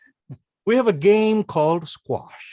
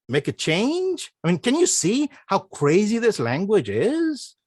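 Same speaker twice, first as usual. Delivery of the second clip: ordinary delivery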